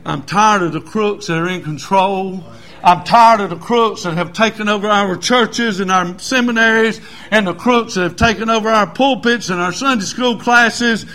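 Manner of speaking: fervent pulpit complaint turning to proclamation; impassioned preaching. Real, not acted. Preaches a building litany.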